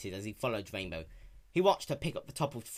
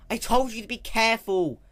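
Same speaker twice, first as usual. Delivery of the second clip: lecturing; 11 semitones higher, 10 dB louder than usual. Acted. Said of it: "Spike lectured".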